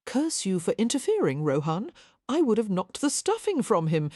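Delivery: growled. Acted. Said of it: "he growled".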